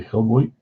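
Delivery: Hilboit, er said as oi; can't say R's. Retold or imitated. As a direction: Hilboit with no R, oi vowel. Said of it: "I would say Hilboit".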